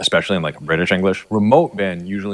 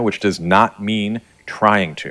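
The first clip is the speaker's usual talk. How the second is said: slow emphasis; slower than usual. Shown as a demonstration. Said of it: "I'm gonna say that again".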